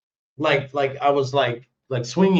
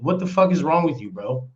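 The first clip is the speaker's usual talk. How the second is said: retold confrontation. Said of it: "I said".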